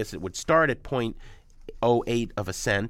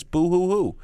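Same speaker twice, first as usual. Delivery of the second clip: fake crying; 7 semitones higher, 4 dB louder, slower than usual. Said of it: "boo-hoo for the oboe guy".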